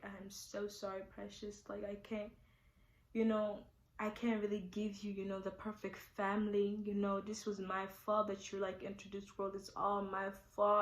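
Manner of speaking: put-on hushed and slow, as if to the baby; tearful apology. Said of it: "I started crying".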